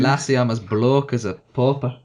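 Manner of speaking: playful smooth Scottish banter. Pretend. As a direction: answer in a light put-on Scottish brogue. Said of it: "like, a smooth Scottish".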